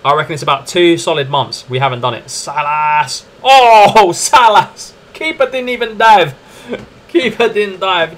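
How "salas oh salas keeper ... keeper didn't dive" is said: much higher, louder, laughing disbelief; excited. Real, not acted. Gamer celebrating a Salas goal, laughing and excited. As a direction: erupt at the goal in delight.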